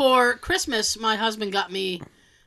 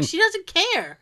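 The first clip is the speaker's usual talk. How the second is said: higher-pitched, exasperated retort; mild retold exasperation; 7 semitones higher than usual. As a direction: set him straight, mildly exasperated. Retold retort to her over-precise husband.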